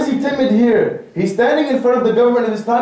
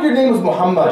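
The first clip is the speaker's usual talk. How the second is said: firm, confident naming; proud; 2 semitones lower, faster than usual. Shown as a demonstration. Preacher shows a brother how to say his name, proudly. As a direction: declare the name with pride. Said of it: "Your pride".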